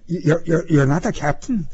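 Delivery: high, stammering question; timidly backtrack to the officer; meek, hesitant apology; apologetic. A narrator's reading. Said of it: "Pruskin asked apologetically".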